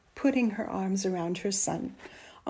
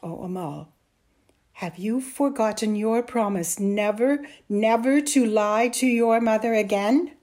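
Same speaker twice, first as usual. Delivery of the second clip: grave start, building to louder reproach; serious; 2 semitones higher, 9 dB louder than usual. A narrator's reading. Mother reminds son of his promise, serious. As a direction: remind him sternly of a promise. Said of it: "She looked very serious as she said".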